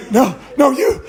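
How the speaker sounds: high, agitated mock cry; imitated shaking panic. Traumatized girl confronting him in the store, imitated high panicked cry. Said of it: "She was, like, shaking".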